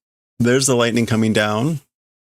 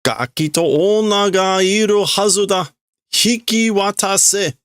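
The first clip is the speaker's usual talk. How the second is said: menacing character; 10 semitones higher than usual. Acted. Intruder demands the boy and woman, menacing. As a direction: demand the brat and woman like a villain.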